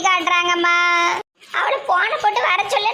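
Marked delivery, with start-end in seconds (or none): 1.6-2.9 higher, crying-edged angry order; angry demand. Acted. Grandmother raging at the teacher who mocked her, angry order. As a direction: snap out the order in outrage.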